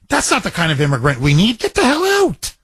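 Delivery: hammed-up fed-up father; imitating dad's dismissal. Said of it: "my dad would be the first to say".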